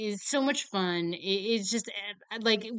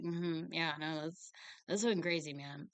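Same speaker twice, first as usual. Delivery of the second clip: muttered aside; 3 semitones lower, 8 dB quieter than usual. Retold or imitated. Employee just listening to it all.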